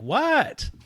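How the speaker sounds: loud high yelled what; shouted question. Retold or imitated. Answering the voice calling from the shower, loud yell. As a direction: yell it through the door.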